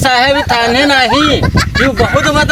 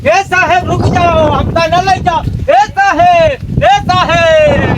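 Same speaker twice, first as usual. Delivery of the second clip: pleading; 3 semitones higher than usual. Acted. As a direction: beg the officer not to leave. Pleading with the officer. (गिड़गिड़ाते हुए विनती)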